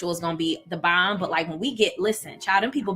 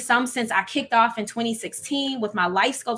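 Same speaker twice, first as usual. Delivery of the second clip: welling up; 4 semitones higher than usual. Real, not acted. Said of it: "I feel it welling up".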